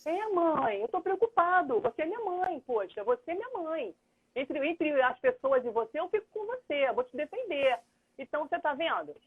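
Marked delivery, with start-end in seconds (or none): 0.0-7.8 higher-pitched son, earnest and protective; worried son. Retold or imitated. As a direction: voice the son pleading his loyalty, higher.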